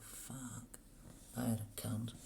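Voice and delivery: quiet disgusted mutter under the breath; muttered curse. Real, not acted. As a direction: grumble it to yourself. Cursing at the slow computer.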